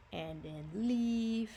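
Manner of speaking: leaf with a slow drawn-out ee; long E sound. Shown as a demonstration. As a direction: stretch the ee in leaf. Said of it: "it's going to say E".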